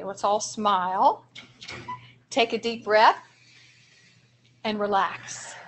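slow, soothing breathing cue with pauses; slow calming demo. Shown as a demonstration. Trainer guiding teachers through a calming exercise, slow and soothing. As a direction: lead the group gently through the breath. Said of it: "I want you guys to practice this with me".

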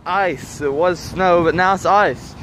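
muffled behind a face covering. Real, not acted. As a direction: talk through a muffled covering. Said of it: "Sorry if my voice is muffled".

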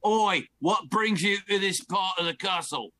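meant as German, comes out vaguely English; a dodgy gnome accent, loosely held. Acted. Dungeon master voices the gnome in a shaky German-ish accent. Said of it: "That's his voice".

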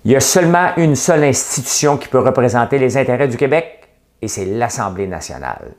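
high, declamatory quote that drops at the end; mock politician's declaration. Mocking François Blanchet's one phrase, high declamatory politician voice. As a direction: proclaim it like a grand political statement. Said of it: "Il a dit une phrase".

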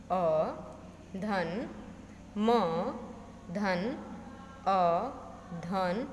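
क, अ, म, अ, ल, अ split into separate sounds with धन between; sounds spelled out. Shown as a demonstration. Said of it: "क का उच्चारण जब हम करते". (कमल को क धन अ धन म धन अ धन ल धन अ में तोड़कर बोलें)

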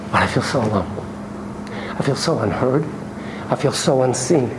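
a touch of pleading sadness; lightly voiced hurt wife. Wife telling therapist she feels alone, mildly hurt. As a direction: play a lonely wife in couples therapy. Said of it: "The wife, the female partner".

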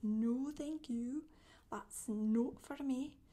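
slow, drawn-out refusal; mock polite refusal. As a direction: turn the devil down slowly and firmly. Imagined refusal to Satan.

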